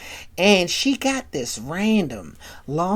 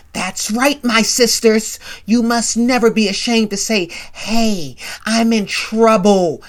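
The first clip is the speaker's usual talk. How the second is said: rallying speech; 3 semitones higher than usual. Retold or imitated. Acted activist addressing women's meeting.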